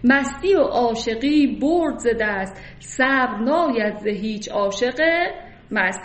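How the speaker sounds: slow, deliberate reading of the couplet; poem recitation. Acted. Teacher reciting Nizami's couplet to the class, slow and deliberate. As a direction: draw out the verse line by line.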